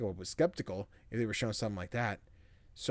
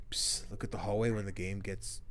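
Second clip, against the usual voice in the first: hushed secretive whisper; 3 semitones lower, 6 dB quieter than usual. Acted. Game character whispers a secret tip to the player.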